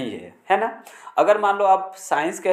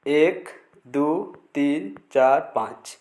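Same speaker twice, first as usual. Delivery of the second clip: slow counting; 2 semitones lower, much slower than usual. Shown as a demonstration. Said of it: "इस तरह से देखिए".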